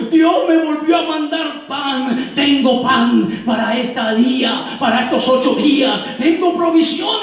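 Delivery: high, jubilant cry of thanks; exultante. Acted. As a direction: proclaim the discovery in rising excitement. Pastor finds bread sent by God. (júbilo exaltado)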